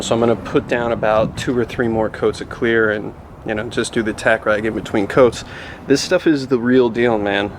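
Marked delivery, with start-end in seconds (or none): 5.9-7.5 muffled behind a respirator mask; through a respirator. Real, not acted. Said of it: "coming through my respirator".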